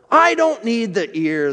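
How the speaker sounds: lightly acted tearful protest; man pleading in pain, hint of a sob; sobbing. A narrator's reading. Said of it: "the man sobbed".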